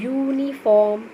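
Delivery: uniform spaced out as "yoo-ni-form"; careful pronunciation. Shown as a demonstration. Teacher demonstrates a word for pupils, uniform carefully sounded out. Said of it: "when you pronounce this word".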